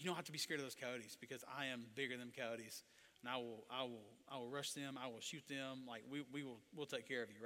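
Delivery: low, soft reassurance; reassuring. Acted. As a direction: soothe someone scared of coyotes. Comforting someone scared of coyotes.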